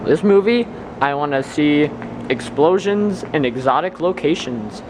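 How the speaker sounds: talking with new braces; slight lisp on the s sounds. Real, not acted. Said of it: "Sorry for my lisp, I got braces this morning".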